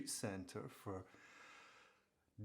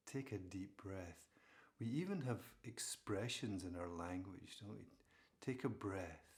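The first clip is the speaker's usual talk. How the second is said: calm, unhurried meditation teacher; guided meditation; 4 dB quieter than usual. Real, not acted. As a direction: ease listeners gently into awareness. Guides a relaxing breath.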